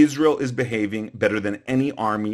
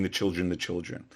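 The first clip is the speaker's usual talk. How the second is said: mocking quote; 5 semitones lower, 10 dB quieter than usual. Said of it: "and saying".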